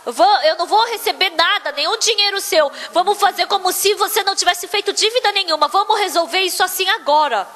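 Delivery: retold eager plea; imploring. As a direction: plead to cancel it all, mildly acted. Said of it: "ficou implorando".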